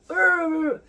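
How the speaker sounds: sudden high loud growl of frustration; frustrated growl. Retold or imitated. Driver fed up with idiots on the road, frustrated growl. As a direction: let out a sharp annoyed "urgh". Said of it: "I'll be like".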